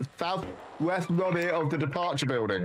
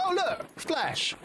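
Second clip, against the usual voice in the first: mock berserker; slower than usual. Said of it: "They're just like".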